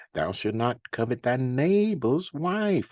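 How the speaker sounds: slow reading, "neighbor's" made prominent; stress on NEIGHBOR'S. Shown as a demonstration. Preacher reads the commandment aloud, stressing "neighbor's". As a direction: lean on "neighbor's" as you read. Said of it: "I'm stressing that word neighbor".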